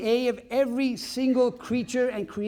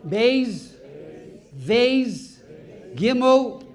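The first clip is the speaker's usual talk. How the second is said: rote recitation; much slower than usual. Retold or imitated. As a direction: chant each letter like a classroom drill. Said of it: "Okay, repeat after me".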